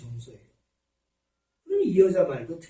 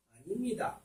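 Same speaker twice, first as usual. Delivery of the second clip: imitated Yanbian dialect, higher and softer; Yanbian accent; 4 semitones higher, 6 dB quieter than usual. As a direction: answer in a Yanbian Korean lilt. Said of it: "조선족인지 연변 사투리로".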